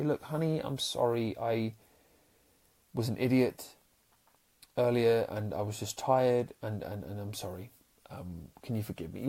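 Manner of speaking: soft, sincere apology to his wife; quietly owning up to a mistake. Pretend. To his wife, admitting he was wrong: soft sincere apology. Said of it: "what we might call sincerity".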